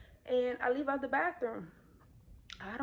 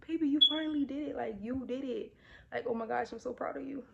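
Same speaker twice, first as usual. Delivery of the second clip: excited praise; 4 semitones higher, 4 dB louder than usual. Retold or imitated. Praising husband after gender reveal.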